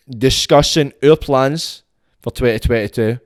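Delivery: mock Glaswegian, lightly done. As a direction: say it in a mild mocking Glaswegian lilt. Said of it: "I says it with that kind of mocking voice".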